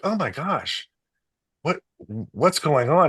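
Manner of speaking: a rider puzzled at his own calm; imitating the athlete. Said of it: "He's like".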